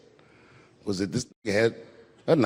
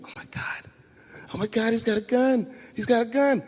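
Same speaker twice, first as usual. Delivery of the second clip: mock scream; 6 semitones higher, 5 dB quieter than usual. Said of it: "Everybody started screaming".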